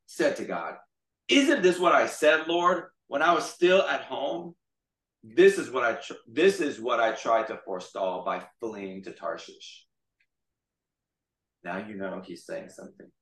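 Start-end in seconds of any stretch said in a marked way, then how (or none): 1.3-9.8 acting out an angry grievance; angry complaint. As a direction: complain to God, heated at first then settling. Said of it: "and he became angry".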